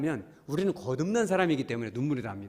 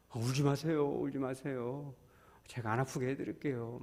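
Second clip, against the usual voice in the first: soothing comfort; 6 dB quieter than usual. Retold or imitated. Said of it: "막".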